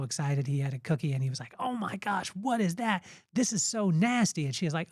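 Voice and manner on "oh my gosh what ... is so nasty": higher-pitched, lightly acted revulsion; mock disgust. Kid tasting a tainted cookie, mock disgust. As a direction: act out a kid's disgusted complaint.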